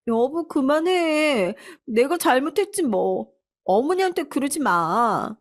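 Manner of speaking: daughter-in-law faking tearful humility; fake meek wife. A narrator's reading. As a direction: play the victim for your husband.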